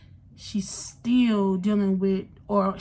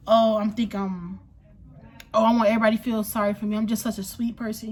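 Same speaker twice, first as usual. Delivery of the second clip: mocking pity-seeker; faster than usual. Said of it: "you give off that".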